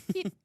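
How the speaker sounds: short little imitated whistle "peet". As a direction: mimic a tiny whistle going peet. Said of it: "that is the sound of the whistle".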